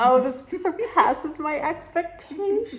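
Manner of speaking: high, loud, drawn-out delight; excited gush. Real, not acted. Vlogger amazed by cheese in Greece, excited gush. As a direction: gush slowly and loudly, pitch right up.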